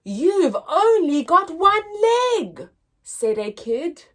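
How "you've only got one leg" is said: put-on higher, louder blunt child blurt; blunt kid. A tactless kid blurts out at Joe.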